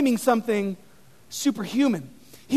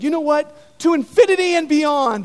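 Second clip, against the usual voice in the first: Buzz catchphrase; 4 semitones higher, 5 dB louder than usual. Retold or imitated. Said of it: "in my sermon, said".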